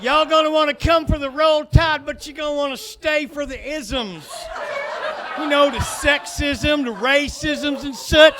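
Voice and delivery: loud, high hick welcome, hammed up; redneck Alabama greeter. Alabama greeter yelling his welcome at visitors. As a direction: play a shouting good-ol'-boy tour guide.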